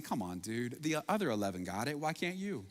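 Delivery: a hint of a weary guilt trip; eye-rolling exasperation. Imagined Jesus mildly mocking Thomas with exasperation. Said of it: "roll his eyes at Thomas".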